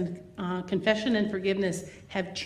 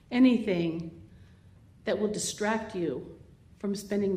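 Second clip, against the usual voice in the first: guided meditation. Acted. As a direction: lead the breathing gently. Guided breathing prayer in church.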